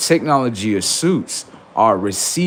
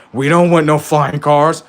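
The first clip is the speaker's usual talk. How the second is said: mock protest; 5 semitones higher, 6 dB louder than usual. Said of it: "We're like".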